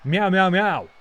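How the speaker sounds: lightly voiced cat; cat meows. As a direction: mew back defiantly. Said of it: "She doesn't want a match".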